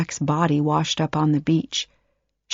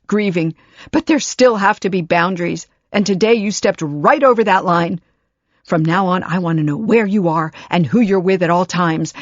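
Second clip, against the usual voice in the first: firm laying down rules; 2 semitones higher, 4 dB louder than usual. Acted. Mother laying down the law.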